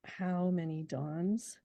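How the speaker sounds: slow, savoring poem reading. Shown as a demonstration. Poet quoting the opening words to the interviewer, slow and savoring. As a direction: linger on each word. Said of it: "the first three words of that book".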